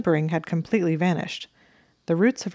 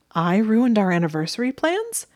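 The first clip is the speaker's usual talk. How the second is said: higher, louder choked question; choked disbelief; 5 semitones higher, 4 dB louder than usual. A narrator's reading. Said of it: "he choked".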